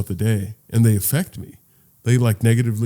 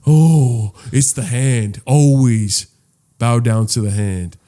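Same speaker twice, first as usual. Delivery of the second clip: slow, grandly commanding voice; mock overlord; 4 dB louder, slower than usual. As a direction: proclaim it slowly to cowering pets. Plays master of frightened pets.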